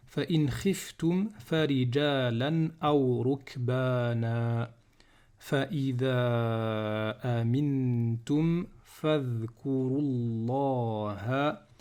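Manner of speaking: slow, continuous verse reading with long vowels; Quran recitation. Shown as a demonstration. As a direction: recite deliberately, holding verse endings. Redoes the whole verse.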